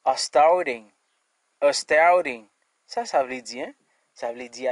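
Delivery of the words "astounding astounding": astounding said with the stress on -stoun-; English pronunciation. Shown as a demonstration. Teacher modelling a new word for the class, clear. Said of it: "Qui c'est".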